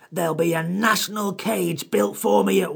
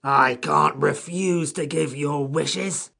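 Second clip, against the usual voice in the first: high, slow creature voice, cross; angry drawn-out creature protest; 11 semitones higher, slower than usual. A narrator's reading. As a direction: speak very crossly as an offended creature. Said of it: "spoke very angrily".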